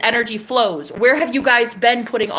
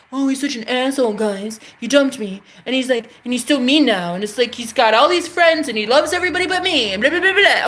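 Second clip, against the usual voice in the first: mocking her own whining; 3 semitones higher than usual. Retelling her rant about the ex to viewers, hammed-up whiny mock voice. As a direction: mimic your past self moaning about him, mock-dramatic. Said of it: "Here I was saying".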